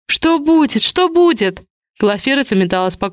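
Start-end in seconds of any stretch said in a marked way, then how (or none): 0.1-1.6 high frightened babble; panicked. A narrator's reading. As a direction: panic as you pace the room. Panicking, rushing around room.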